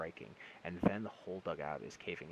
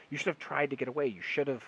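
desperate shout; 7 semitones higher, 9 dB louder than usual. A narrator's reading. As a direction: shout it loud and high, desperate. Doctor shouting during bombardment.

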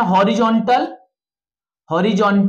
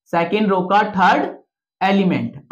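slow dictation. Shown as a demonstration. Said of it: "इसका मतलब क्या है?".

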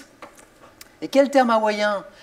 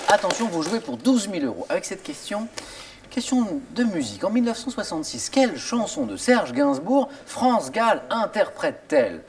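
upbeat quiz host reading; game show host. Acted. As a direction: address viewers like a TV host. Host addresses viewers at home.

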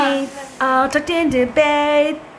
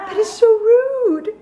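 laughing; 9 semitones higher, slower than usual. Real, not acted. Laughing at the dog.

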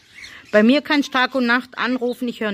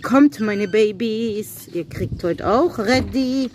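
calling pets tenderly; slower than usual. Real, not acted. Calling animals to feed.

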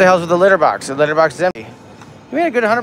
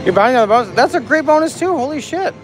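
excited squeal; 8 semitones higher, 3 dB louder than usual. Real, not acted. Friend buys big slot bonus.

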